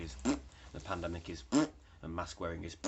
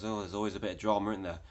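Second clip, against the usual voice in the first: imitating a cheery shop assistant; 2 semitones higher, 5 dB louder, faster than usual. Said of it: "one of the shop assistants says".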